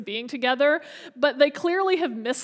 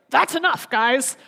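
a breezy, matter-of-fact "That's enough, guys" with a lift on "guys"; brisk casual; 3 dB louder, slower than usual. Shown as a demonstration. Preacher showing Jesus casually telling the guys to drop it, brisk and breezy. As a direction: toss off "That's enough, guys" like a friend cutting off a joke. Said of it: "is this like".

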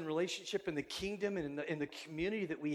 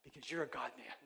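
softer, sweetly imitated Persian accent; 3 semitones lower, 6 dB quieter than usual. Neighbor welcoming pastor into his building, soft imitated Persian accent. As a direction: welcome them softly in an imitated Persian accent, trailing lower. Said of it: "It was so sweet".

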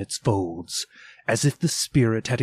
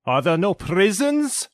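higher, cutting, stress on prisons; mocking his own words; 10 semitones higher, 4 dB louder than usual. Spirit turns Scrooge's words on him, cutting. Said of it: "turning on him ... his own words".

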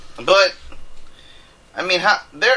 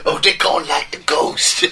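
attempted Cajun accent. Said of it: "you almost sound like Bobby Boucher's mom".

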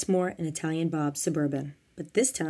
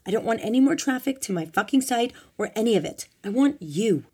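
higher, raised, impassioned voice; pleading shout; 5 semitones higher, 5 dB louder than usual. A narrator's reading. Marianne begging Glenn to stay, shouting. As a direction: plead loudly and insistently. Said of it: "Marianne shouted".

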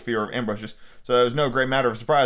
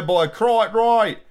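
terrible officer voice; 6 semitones higher, 4 dB louder, much slower than usual. A narrator's reading. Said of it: "Wow, that was terrible".

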